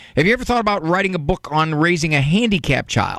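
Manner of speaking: ordinary delivery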